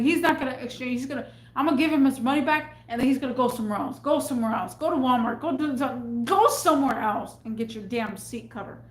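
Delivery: fast, irritated retold rant; rushed angry send-off; pissed rant. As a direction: rattle off the dismissal, fed up. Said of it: "I was that pissed".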